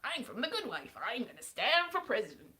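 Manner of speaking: badly faked American politician accent; attempted American accent. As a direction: do a poor American candidate impression. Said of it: "That's exactly what he was like".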